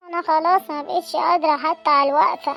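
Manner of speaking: put-on mild tearful break on خلاص, old woman near crying; a touch of crying, understated. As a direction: let the voice crack with self-pity. Old mother laments frailty.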